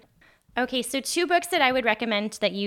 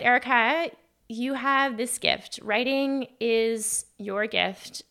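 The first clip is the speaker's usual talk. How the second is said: slow, tender and moved; therapist's kind words, slowed and tender; tender quote; 3 semitones higher, slower than usual. Retold or imitated. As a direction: say it slowly like a precious memory. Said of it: "she said".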